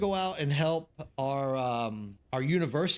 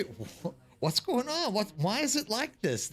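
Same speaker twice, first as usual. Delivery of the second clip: a hint of a stilted textbook voice; stiff direct translation; 6 semitones higher than usual. Shown as a demonstration. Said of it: "the direct translation".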